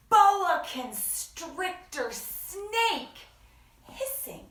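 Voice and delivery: slow hissing snake voice; drawn-out s like a snake. Acted. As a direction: hiss the s like a real snake. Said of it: "Doesn't that sound like a real snake?".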